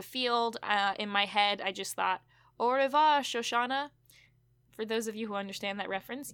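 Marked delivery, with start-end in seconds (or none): 2.6-3.9 a hammy, badly faked French accent; half-hearted French villain accent, savouring the name; terrible French accent. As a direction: toss off a mock French goodbye. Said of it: "Because of my terrible accent".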